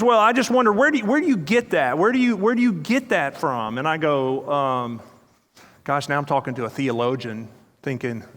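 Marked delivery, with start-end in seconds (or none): 0.0-3.8 higher, pointed mock challenge; playful higher challenge; challenging question. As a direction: quiz him, voice lifted and teasing. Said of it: "And he goes".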